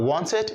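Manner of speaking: "wanted" with "ted" in place of "tid"; mispronounced -ed ending. Shown as a demonstration. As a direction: show the mistake "wanted" as WON-ted. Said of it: "Not wanted".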